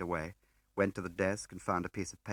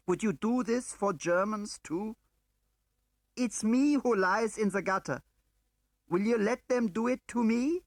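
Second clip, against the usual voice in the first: shouted plea; 7 dB louder than usual. A narrator's reading. Woman pleading with her husband, high and loud. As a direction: beg him to stop. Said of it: "I shouted at him".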